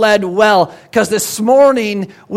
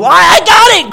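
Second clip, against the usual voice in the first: high, loud excited croak; croaking frog; 8 semitones higher, 7 dB louder than usual. Acted. Frog croaks his idea to the others, high and loud. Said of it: "croaks frog".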